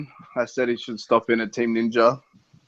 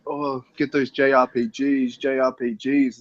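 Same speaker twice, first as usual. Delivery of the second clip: mimicking pestering fans; 2 semitones higher, slower than usual. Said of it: "people in there going".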